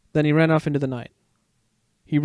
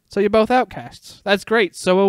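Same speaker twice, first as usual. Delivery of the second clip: grinning; 6 semitones higher, 5 dB louder than usual. A narrator's reading. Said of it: "the meerkat grinned".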